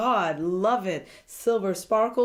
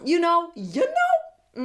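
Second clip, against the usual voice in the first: knowing tone; 10 semitones higher, 4 dB louder, slower than usual. Pretend. Hinting at a type.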